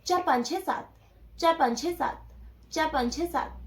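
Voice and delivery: even, unbroken count; four-five-six-seven said as one smooth chain; counting without a gap. Shown as a demonstration. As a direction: run the numbers together, no pauses. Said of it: "मैं बोल रही हूँ".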